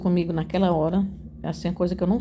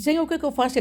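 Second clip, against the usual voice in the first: pleading question; 6 semitones higher, faster than usual. Retold or imitated. Reenacting question to God.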